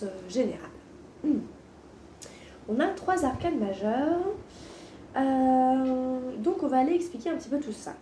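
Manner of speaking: sore-throat hoarseness; hoarse voice. Real, not acted. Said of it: "je la vois un peu rauque".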